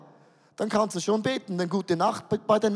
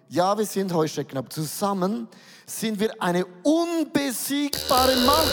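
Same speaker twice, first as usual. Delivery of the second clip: rallying cry. Acted. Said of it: "Doch Kaleb und Josua sagte".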